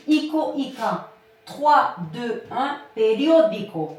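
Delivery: tapping out trois, deux, un then "periódico" with stress on "dió"; counting back to the stress. Shown as a demonstration. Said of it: "regardez ici ma règle orthographique".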